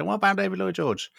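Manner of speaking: high-pitched retold question; high mock audience voice; mock questioner. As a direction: lightly imitate people asking, pitched well up. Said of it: "they say it in a Welsh voice".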